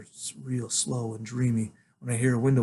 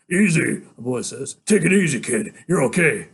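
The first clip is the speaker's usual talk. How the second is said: put-on soothing boy; 2 semitones higher, 6 dB louder than usual.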